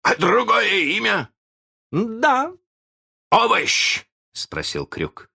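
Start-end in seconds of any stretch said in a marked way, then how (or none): 0.0-4.0 вопросы. A narrator's reading. Hook and Peter guessing game.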